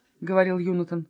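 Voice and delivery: ordinary delivery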